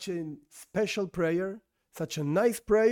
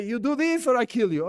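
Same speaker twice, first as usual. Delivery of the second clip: raised pitch, hypothetical menace; mock threat; 5 semitones higher, 4 dB louder than usual. Teacher playing someone with a weapon forcing him, mock threatening. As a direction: lightly act out an ultimatum.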